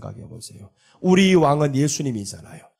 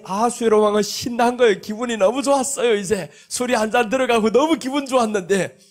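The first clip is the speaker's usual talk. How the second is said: ordinary delivery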